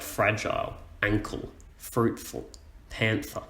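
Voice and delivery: "fragile, ankle, fruitful, panther", each weighted on its first syllable; stressed first, light second syllable in "fragile, ankle, fruitful, panther". Shown as a demonstration. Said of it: "a stressed syllable first".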